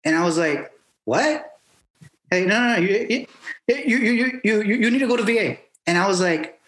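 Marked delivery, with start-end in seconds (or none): 1.0-1.6 high, rising mock-surprised question; incredulous little query, retold; puzzled what. Acts out own puzzled reply. 2.3-5.6 imitated accent, high and stammering insistence; higher-pitched take on his accent, urgent; Hernandez. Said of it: "in his accent".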